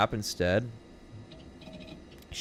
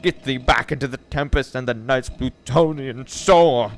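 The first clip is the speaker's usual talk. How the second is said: loud, raised, furious verse delivery; shrieked recital; 4 semitones higher, 8 dB louder, slower than usual. Acted. Narrator ordering the raven out of his chamber, shrieking. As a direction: cry out the lines, building to a shout. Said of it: "I shrieked, upstarting".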